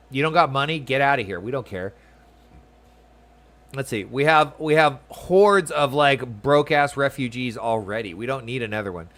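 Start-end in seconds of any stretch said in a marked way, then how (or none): 0.1-1.9 mock rude Ul'dah local. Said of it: "they're like". 4.0-9.1 mock snobby citizen. Voicing Ul'dah citizens.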